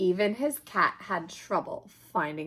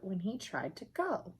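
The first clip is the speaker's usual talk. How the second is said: whispered aside about the hurt; hushed; 8 dB quieter than usual. A narrator's reading. Reader whispers to the child, hushed. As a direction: drop to a whisper.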